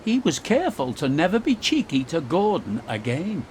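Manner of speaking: ordinary delivery, nothing marked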